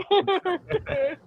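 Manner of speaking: high, anxious puffing sound; mock anxious noise. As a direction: imitate stressed-out panting. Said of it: "It gives me anxiety".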